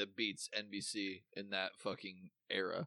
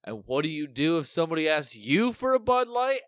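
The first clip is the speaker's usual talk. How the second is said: teacher voice; 6 semitones higher, 9 dB louder than usual. Retold or imitated. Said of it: "he goes".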